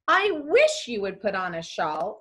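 a wish with stress on "wish" and a rising end; wishful request. Shown as a demonstration. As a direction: lean on "wish", then lift the end. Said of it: "A wish or request".

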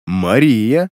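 lovestruck, smiling murmur; blissful murmur. A narrator's reading. Демин naming his new love, blissfully murmuring. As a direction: say the name with a blissful smile. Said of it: "с блаженной улыбкой пробормотал Демин".

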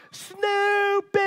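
high, loud scream of the name, building to the third call; frantic third call, the loudest. Retold or imitated. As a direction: scream it out at full stretch. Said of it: "This, this loud scream".

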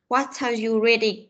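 "What are" run together, T carried into "are"; linked T-A sound. Shown as a demonstration. Teacher modelling the question for pupils, "What are" linked. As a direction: link "What are" in "What are you reading". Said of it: "có cái âm nối giữa âm T".

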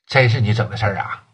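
low, dropped, disbelieving with weight on 真; stunned disbelief. Acted. Boss realizing his partner really did it, low disbelief.

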